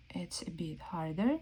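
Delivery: hushed secretive whisper; soft teasing whisper; playful whisper. Acted. Playful hide-and-seek commentary.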